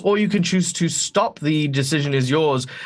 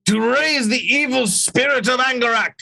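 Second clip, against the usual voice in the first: villain shout; 8 semitones higher than usual. Acted. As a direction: boom it out like a tyrant.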